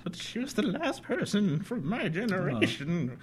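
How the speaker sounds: put-on frail old man asking for help; creaky old-timer voice. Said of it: "a frail old man".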